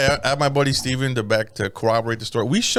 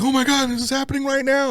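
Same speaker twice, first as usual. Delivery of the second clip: mock disbelief; 11 semitones higher than usual. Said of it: "And like".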